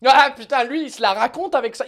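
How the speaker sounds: mocking jeer. Acting out French people mocking an accent, loud jeer. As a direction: jeer loudly at someone's accent. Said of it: "On se fout de la gueule des gens".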